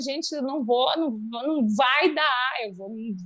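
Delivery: put-on words wrung out with pained cries. Retelling what was said while in agonizing labor pain: imitating own cries in labor pain. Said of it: "me arrebentando, falando".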